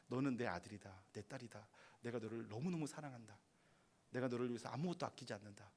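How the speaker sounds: soft, tender fatherly voice; God tenderly telling his children he loves them. Acted. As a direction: speak low and loving to a child.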